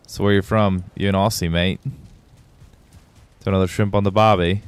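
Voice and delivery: put-on Australian accent. Streamer teasing a viewer, mock Australian accent. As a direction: chat to viewer Frizzy in a hammed-up Australian accent. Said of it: "Sorry for my shitty accent".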